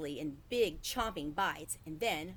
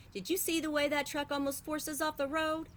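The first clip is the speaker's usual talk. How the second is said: higher, exasperated father's voice; 9 semitones higher than usual. A narrator's reading. Father complaining to his wife about the truck, exasperated. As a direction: let the tired father vent.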